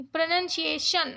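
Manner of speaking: "प्रोनंसिएशन" with a clearly articulated final "शन"; clarity on last syllable. Shown as a demonstration. Teacher showing where clarity goes, clear "शन" in "प्रोनंसिएशन". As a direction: make the "शन" ending of "प्रोनंसिएशन" distinct. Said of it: "शन में clarity डाल रही हूँ".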